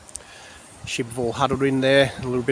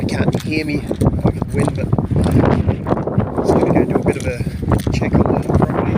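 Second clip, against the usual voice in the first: shouting over wind; 6 dB louder than usual. Real, not acted. Filming outside in cyclone wind.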